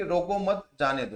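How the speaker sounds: "रोको मत" as one unit, pause, then "जाने दो"; group मत with रोको, then let जाने दो follow; pause after मत. Shown as a demonstration. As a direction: break the phrase after मत. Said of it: "दोनों में बहुत फर्क हुआ".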